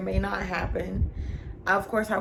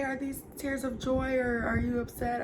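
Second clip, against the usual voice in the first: crying; 5 semitones higher, 5 dB quieter than usual. Real, not acted. Quoting nurse while starting to cry.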